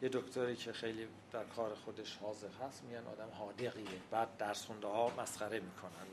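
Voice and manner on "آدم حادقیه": حادقیه with d for z; colloquial d form. Retold or imitated. Linguist quotes townspeople praising a skilled doctor, حادقیه said with d. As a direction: say حادقیه as "haa-degh-iye". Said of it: "خیلی تلفظ عامیانه است".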